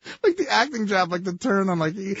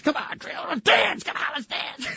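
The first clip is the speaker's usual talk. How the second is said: pestering invitation; 12 semitones higher than usual. Retold or imitated. Farley pestering actress.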